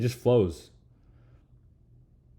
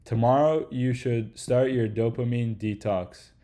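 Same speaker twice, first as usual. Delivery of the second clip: stiff script reading; slower than usual. Retold or imitated. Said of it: "Next sentence".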